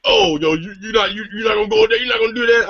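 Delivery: high, rapid, stammering disbelief; incredulous friends. Retold or imitated. Friends egging him on about the girl, high-pitched incredulity. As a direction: imitate friends' high-pitched, tumbling protest.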